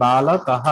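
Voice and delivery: বালকহ drawn out with a final "ha"; visarga demonstration. Shown as a demonstration. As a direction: slowly sound out বালকহ, ending in h. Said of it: "আমি যদি এভাবে বলি".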